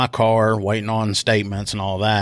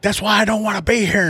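retold wailing protest; 11 semitones higher than usual. Cowboy answering the woman in jail, imitated high protest. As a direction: imitate his upset outburst, pitched up. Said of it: "starts screaming and everything".

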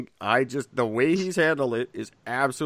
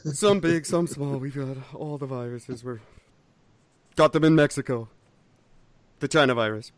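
Trump voice. Retold or imitated. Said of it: "doesn't sound anything like Donald Trump".

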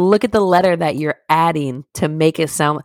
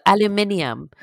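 higher mock-British voice; 4 semitones higher than usual. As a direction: imitate a Brit saying it. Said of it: "British people say that shit like".

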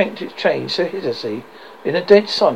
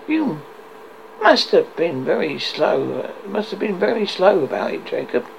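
business-like; 3 semitones higher than usual. Acted. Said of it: "in a business-like manner".

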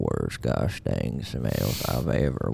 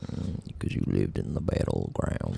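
cowboy voice. Acted. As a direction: play an old ranch hand, easy and dry. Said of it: "my cowboy voice is on point".

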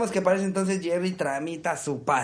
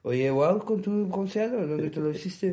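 Spanish read with a French lilt; French accent; 2 semitones higher than usual. Shown as a demonstration. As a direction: say it like a French tourist. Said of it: "léanlo con acento francés".

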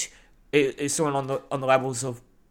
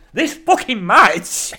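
mock grumpy; 8 semitones higher, 7 dB louder, much slower than usual. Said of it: "And I went".

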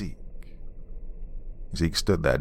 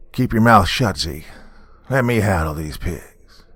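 loud hostile shout; yelling; 3 semitones higher, 6 dB louder than usual. Retold or imitated. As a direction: yell it across at them. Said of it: "He leaned over to yell past".

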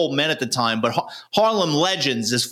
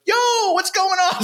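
high, casual street greeting; mock-innocent high greeting; Tiny's voice. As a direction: play the big guy caught but cool. Tiny caught hiding in chute.

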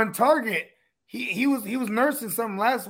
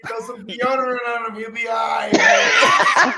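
laughing shout; 3 dB louder than usual. Real, not acted.

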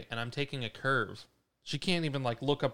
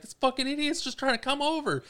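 high, frantic explanation, retold; re-enacted road-rage outburst, pitched way up; retold agitated shout; 14 semitones higher, 4 dB louder than usual. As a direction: explain it heatedly to a panicked passenger. Retelling heated shout to panicked sister.

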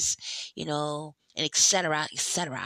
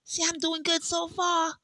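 mock positivity; 3 semitones higher than usual. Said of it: "I'll give y'all two minutes of positivity".

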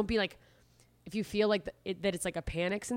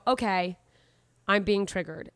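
calm acknowledgement; 3 dB louder than usual. Retold or imitated. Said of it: "being able to go".

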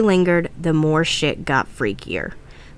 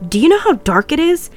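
much higher, incredulous nervous question; nervous laugh; 10 semitones higher, 4 dB louder than usual. Acted. James objects to leaving in the dark, nervous. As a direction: let the pitch jump with uneasy nerves. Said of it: "James laughed nervously".

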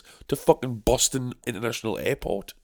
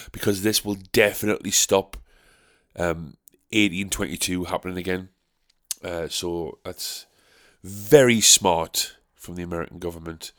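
sarcastic praise. Acted. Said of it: "sarcasm aside".

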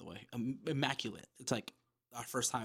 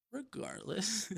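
Regardless drawn out slowly and higher; stress on Regardless; 9 semitones higher, 4 dB quieter, much slower than usual. Shown as a demonstration. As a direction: stretch out Regardless, slow and sing-song.

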